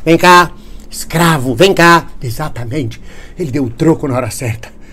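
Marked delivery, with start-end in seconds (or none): 0.0-2.1 calling a dog. Retold or imitated. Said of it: "como se fosse um cachorro".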